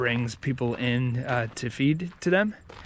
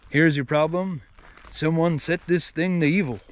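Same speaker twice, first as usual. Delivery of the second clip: lightly voiced, gruff tough-guy growl as a cartoon character; a light cartoon take on a stern action hero; Hank Azaria doing Charles Bronson; 3 semitones higher than usual. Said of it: "So it, it goes like this".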